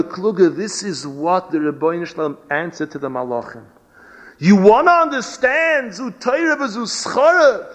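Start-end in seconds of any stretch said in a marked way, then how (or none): 4.4-7.7 divine answer at the climax. Retold or imitated. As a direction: lift the voice high as the heavenly reply. God's answer, preacher's climax.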